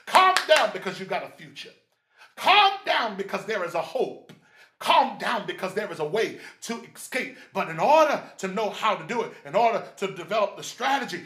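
loud attack on each opening phrase; emphatic preaching. Acted. Preacher urging hope to the anxious, emphatic preaching. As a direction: drive it home from the pulpit.

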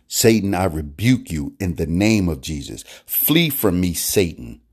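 firm, stern rebuke of Satan; commanding rebuke. Shown as a demonstration. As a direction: order the devil away with authority. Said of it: "when we talk like that".

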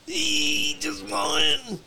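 very high, drawn-out mock plea; squeaky coaxing. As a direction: squeal it playfully to tempt a friend. Coaxing friends to drink, playful squeal.

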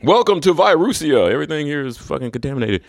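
mock tour guide.

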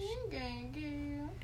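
soft whispered Vine line; a whispered repeat of a Vine quote to a friend. Retold or imitated. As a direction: breathe it out as a whisper.

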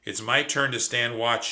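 chirping. Acted. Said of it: "she chirped".

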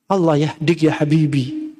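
low, slow, patient blessing; gentle blessing. Acted. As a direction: soothe a child instead of getting angry. Gentle blessing instead of anger at child. (doa lembut untuk anak, pelan dan rendah)

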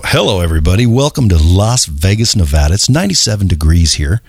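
lightly done radio announcer; a touch of strip club DJ smoothness. Shown as a demonstration. Host asks to hear his radio voice, a light DJ. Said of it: "Wait, do it. I gotta hear it".

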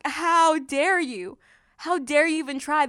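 indignant challenge. Acted. Preacher asking the enemy when that voice comes, indignant. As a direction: challenge the accuser, stretching the first question. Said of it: "I ask".

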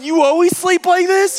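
high-pitched incredulous retold question; freaking out. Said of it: "I'm freaking out".

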